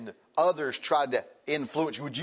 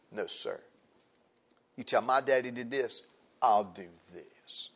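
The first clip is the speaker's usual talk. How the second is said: put-on defiant young bucks. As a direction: play young bucks digging in, drawing out the last words. Acting out defiant young advisers.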